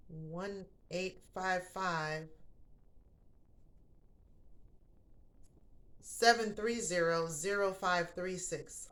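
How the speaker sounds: very slow, digit by digit; slow number read. Real, not acted. Host reads sponsor's phone number to listeners, slow and careful. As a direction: read the number slowly for viewers.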